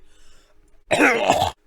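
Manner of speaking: harsh throat clear; throat-clearing cough. Shown as a demonstration. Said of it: "You're clearing your throat".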